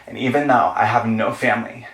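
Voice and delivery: lightly acted teen-movie confrontation speech; understated hurt, building resolve; earnest movie heroine. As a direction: stand up for yourself, measured and earnest. Acts out Cinderella Story monologue.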